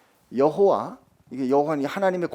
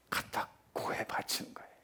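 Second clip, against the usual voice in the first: whisper; 12 dB quieter than usual. Acted. Preacher drops to a hush.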